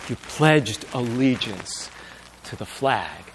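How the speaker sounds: low, soft, slow repeat of her words; hushed and tender. Acted. Preacher softly echoing the wife's words to the congregation. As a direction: let it land softly, barely above a breath.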